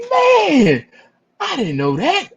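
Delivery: very high, loud whiny wail on man; hammed-up whiny fan voice; mock wail. Fan's mock dismay.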